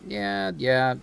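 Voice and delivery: loud, high hyped yeah yeah; excited. Real, not acted. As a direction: cheer the hit. Hyped over a game kill.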